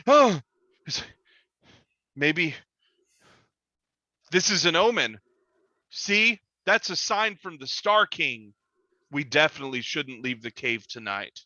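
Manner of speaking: a superstitious creature seeing a sign; awed monster. Acted. GM voices monster seeing omen.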